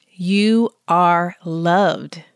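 very slow and weighted; slow sincere reassurance; slow affirmation. Real, not acted. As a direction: let it sink in gently. Truth number five.

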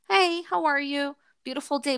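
a touch of passing-stranger friendliness; lightly acted friendly greeting. Blind man answering the boy's hello, lightly acted cheery greeting.

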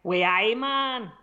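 amateur put-on Geordie; mock Geordie greeting; Geordie accent. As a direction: have a go at Geordie. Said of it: "give me a Geordie".

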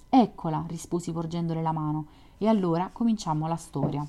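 steady literary read-aloud voice; story narration. A narrator's reading. Podcaster reading White Nights to listeners, story narration. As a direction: narrate the novel evenly, voicing the lovers lightly.

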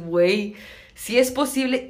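a sudden dawning shock; mock realization. Reacción citada, realización. (de pronto darse cuenta, más agudo y fuerte)

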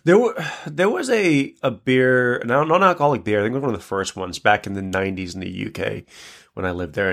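stuffy, blocked nose from allergies; holding nose sound. Real, not acted. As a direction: talk through a blocked nose. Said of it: "if I sound like I'm holding my nose".

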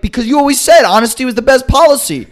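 high, giggling self-defence; laughing through words. Real, not acted. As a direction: laugh while you say it. Laughing while quoting himself.

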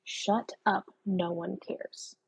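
soft and slow, fading to almost nothing; quiet brush-off. Retold or imitated. Muttering to the voice in her own head, quietly dismissive. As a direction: shrug it off under your breath, slowing down. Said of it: "I literally have to tell the voice in my head".

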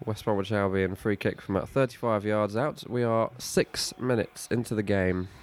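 steady play-by-play commentator read; match commentary. Acted. Live football play-by-play.

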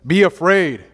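mock doom preacher shouting; mock alarm. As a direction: ham up a doomsday warning. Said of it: "what did the Lord say".

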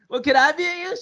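high, eager little ask; high hopeful voice. Retold or imitated. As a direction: raise the pitch, hopeful.

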